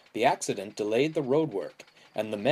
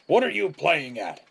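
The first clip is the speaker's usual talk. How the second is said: louder, higher indignant shout; alarmed yell; 6 semitones higher, 5 dB louder than usual. A narrator's reading. George drifting across the road, yelling at his driver. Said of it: "he yelled".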